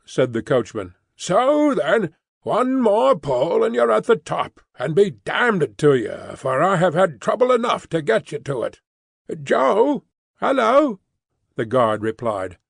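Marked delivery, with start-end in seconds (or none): 1.2-8.8 gruff coachman. Acted. Coachman voiced in story. 9.4-11.0 calling out. Acted. Guard calling out.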